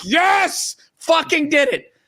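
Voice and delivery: hammed-up triumph; triumphant. Husband retelling his own win at surprising wife, gleeful. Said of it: "And I'm like".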